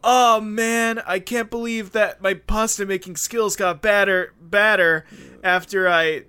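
loud hammed-up Italian character; Italian accent. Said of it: "I would just be like".

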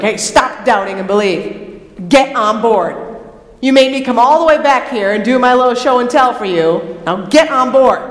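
loud, impatient telling-off; acted cross reprimand, firm and loud; mock scolding. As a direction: scold a doubter as if put out by the trouble. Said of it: "being kind of mean or scolding".

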